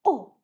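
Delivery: Oh as short o like orange; a short o for Oh after missing the orange; short O sound. Shown as a demonstration. Teacher acting out missing the orange, short o. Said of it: "You say".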